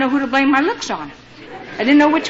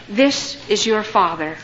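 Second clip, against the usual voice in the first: slow, measured retold revelation; retold father's gentle announcement; tender reveal; 2 semitones lower, slower than usual. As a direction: let each word land slowly and gently. Father reveals himself by phone.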